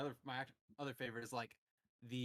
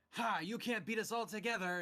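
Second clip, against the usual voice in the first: higher, louder mock gloat; gloating villains; 7 semitones higher, 5 dB louder than usual. Villains taunting Spider-Man, mock gloating. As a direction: crow it like a cocky villain. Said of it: "they're all just like".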